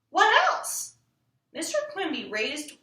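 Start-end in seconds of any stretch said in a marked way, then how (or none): 0.1-0.9 impatient ask. Acted. Impatient child pressing father.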